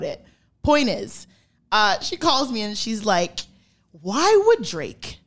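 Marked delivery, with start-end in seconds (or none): 3.9-5.2 slow, drawn-out imitation of an indignant mom; mimicking mom. Daughter imitating her mom's phone call, slow and indignant. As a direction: drag it out like a baffled mother.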